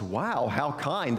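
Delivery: lightly voiced storybook cow, drawn out; a touch of slow, understated wonder; mildly amazed cow.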